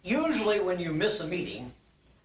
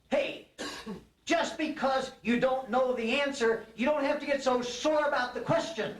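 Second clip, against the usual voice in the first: winded lion, pitched up high; gasping lion; 9 semitones higher than usual. Acted. Beaten lion to the elephant, winded and high. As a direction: squeak it out while still short of breath. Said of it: "gag and search for breath".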